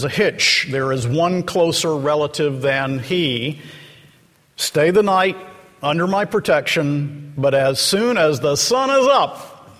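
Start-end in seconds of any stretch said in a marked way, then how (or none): 4.6-9.7 lightly acted excited promise; excited Boaz. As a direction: urge her to stay, then hurry into the plan. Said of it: "he says excitedly".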